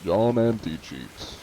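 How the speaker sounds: lightly put-on posh announcer, slow on the name; grand self-introduction, drawn out at the end; fancy John Anti-Cheat. Streamer showing chat his Anti-Cheat persona, lightly fancy voice. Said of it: "speaking fancy".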